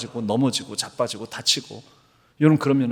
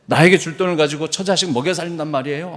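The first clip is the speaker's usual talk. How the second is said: a louder, more heated repeat of the protest; angry protest; 3 semitones higher, 5 dB louder, faster than usual. Retold or imitated. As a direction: push the indignation harder, rising at the end. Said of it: "하면서 막 화를 나-, 내더라는".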